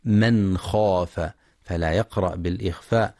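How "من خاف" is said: من خاف with the nun fully pronounced, slowly; clear nun. Shown as a demonstration. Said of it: "للإظهار الحلقي".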